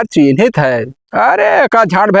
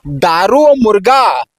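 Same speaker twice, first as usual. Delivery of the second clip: put-on town drunk. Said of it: "बेवड़ा सारे".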